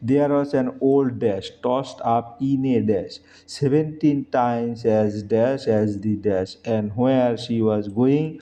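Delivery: slow, careful recitation of the poem; slow poem reading. Shown as a demonstration. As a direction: read each word out slowly for the class. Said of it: "teacher reads the poem aloud". (ধীরে কবিতা পাঠ)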